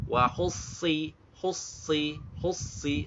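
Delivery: HUSSI with a heavy emphatic S, repeated; straight into sad. Shown as a demonstration. Teacher drills hussi for learners, immediate sad. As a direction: go directly from HU into a thick S in HUSSI. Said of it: "Suaranya itu langsung sad".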